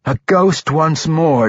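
high, slow, gloating cry; triumphant cry. A narrator's reading. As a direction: crow it out in triumph. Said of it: "Dahlia cried triumphantly".

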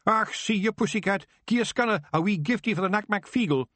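high, rowdy Scottish egging on; Scots cheering. Acted. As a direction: wee men cheering a cat fight. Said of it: "egging Yew on with cries of".

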